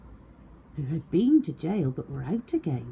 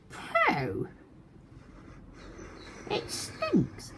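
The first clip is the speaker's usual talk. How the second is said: high squeal of disgust; 4 dB quieter, much slower than usual. A narrator's reading. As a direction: pinch your nose and complain. Disgust at smell.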